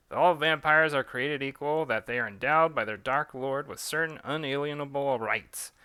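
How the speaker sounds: vampire pundit haranguing his listeners on air; talk radio host. Acted. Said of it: "the vampire equivalent of conservative talk radio".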